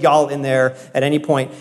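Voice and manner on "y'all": "y'all" with a Southern US accent; good Southern y'all. Shown as a demonstration. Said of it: "I can get a good".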